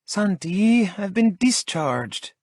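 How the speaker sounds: a patient fed up with waiting; Lola groaning. A narrator's reading. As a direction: drag it out with a weary groan. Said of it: "she says with a groan".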